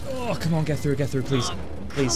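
strained, breath held; pushing words out breathless; holding breath. Real, not acted. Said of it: "I'm genuinely out of breath 'cause I'm holding my breath".

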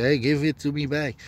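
demanding shout. Retold or imitated. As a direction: snap it out urgently. Retold street fight, demanding.

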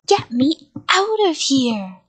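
slow, loud drawn-out shout. A narrator's reading. Monster stuck in his costume to the child, shouted. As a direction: shout with OUT stretched long. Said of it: "he shouted".

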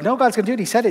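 high-pitched, eager mock insistence; insistent faith enthusiast. Faith person answering a doubting church leader, high and insistent. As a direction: jump in high, brushing off every doubt.

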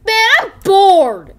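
loud, slow, drawn-out bored wail; bored yell. Acted. Clown whining to the man he's bored, loudly. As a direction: stretch out a huge bored groan.

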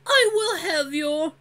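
high, slow, raging voice; furious threat. Acted. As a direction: threaten with fury. Dran threatening, cut off.

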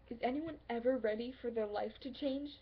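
loud, insistent pleading that builds; exasperated outburst. Acted. Arguing with a lover who says they're not ready, exasperated. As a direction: argue it hard, rising to near shouting. Acted argument with reluctant lover.

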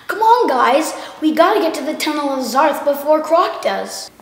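eager cartoon hero rallying friends; Monroe voice. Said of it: "I could do Monroe".

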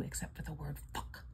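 hushed secret whisper; telling viewers her guilty pleasure in a whisper; conspiratorial whisper. Acted. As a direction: whisper it like a naughty confession. Confessing a naughty secret.

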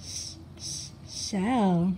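whispered sh, sh, then shell; drawn-out sh sounds leading into shell; stretched sh sound. Shown as a demonstration. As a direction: hiss the sh before saying shell. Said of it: "Do you guys hear the S H sound?".

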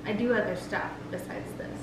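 slightly slurred, numb tongue. Real, not acted. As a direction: talk with an ice-numbed tongue. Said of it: "slurring because my tongue is numb".

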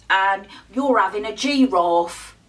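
hammed-up Cockney slang; badly faked London Cockney twang; bad Cockney accent. Shown as a demonstration. Vlogger demonstrating rhyming slang, badly faked Cockney accent. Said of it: "That's really bad accent".

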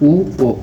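"উ, ও" as two separate sounds; correct pronunciation. Shown as a demonstration. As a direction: sound out "উ, ও" with a gap between. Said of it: "সঠিক উচ্চারণ হবে".

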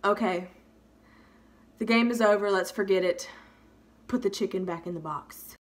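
low-key, resigned teacher on the mic; deadpan surrender; grudging announcement. Retold or imitated. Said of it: "brings the microphone back up to her mouth slowly".

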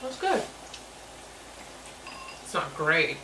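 speaking between bites; talking while chewing. Real, not acted. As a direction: mouth partly full. Seen 0: Pink-shirted speaker ate noodles just before and appears to chew while talking.

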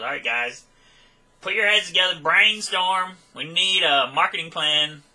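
rally the guys like a planning boss, hammed-up; mock team leader. Imagined pep talk to disciples.

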